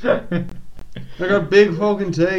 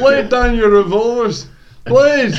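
put-on Irish accent; 4 semitones higher, 4 dB louder than usual. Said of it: "slightly Irish voice".

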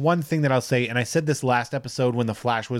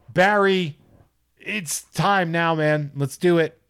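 mock Cyborg; 6 semitones higher, slower than usual. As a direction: hype Barry up like Cyborg. Cyborg voiced in retelling.

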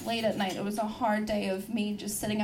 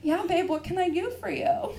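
higher, put-on sweet reply; put-on willingness; 6 semitones higher than usual. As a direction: feign eagerness to please your partner. Acts falsely willing girlfriend.

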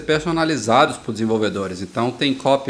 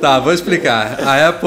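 trying not to laugh; 3 semitones higher, 6 dB louder than usual. Real, not acted. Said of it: "Eu preciso respirar aqui".

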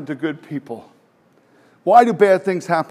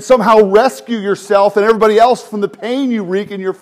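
laughing; 3 semitones higher, 6 dB louder than usual. Real, not acted. Preacher mocking rival teachings.

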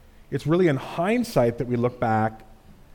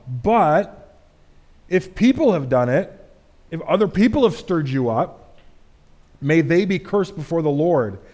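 David cursing those who stirred Saul, louder; intense plea; 2 semitones higher, 3 dB louder than usual. Acted. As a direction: call down the curse with force.

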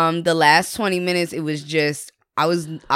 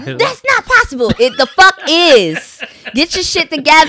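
heated retort; 9 semitones higher, 5 dB louder than usual. Retold or imitated.

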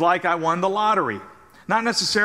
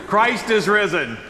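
proclaimed out to the room; call to the congregation; 2 semitones higher than usual. Shown as a demonstration. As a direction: call it out for the response. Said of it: "You say, He is risen indeed".

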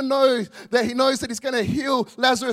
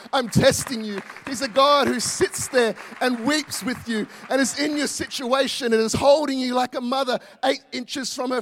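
louder, building preacher's insistence; fervent preaching; 3 dB louder than usual. Acted. Pastor assures grieving mums God weeps with them, fervent preaching. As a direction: pour it on the congregation like a pastor.

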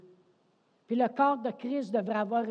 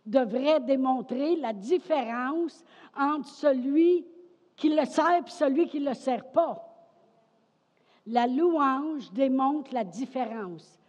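slow, raised preacher's delivery; emphatic preaching; 5 semitones higher, 7 dB louder than usual. Real, not acted. Preacher declares what praise shows, emphatic preaching. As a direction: drive each phrase home slowly.

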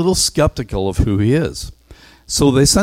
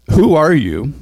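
questioning delegation; 6 semitones higher, 5 dB louder than usual. Acted. Delegation asks again.

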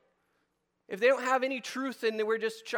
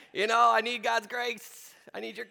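mock pleading; 2 semitones higher than usual. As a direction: beg for mercy with a half-joking tone. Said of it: "I go".

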